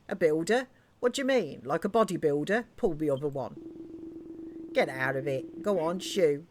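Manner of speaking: lightly acted British working-class game characters; gruff-talking British miner characters. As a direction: lightly voice suspicious locals sending a stranger off. Reads game characters' dialogue.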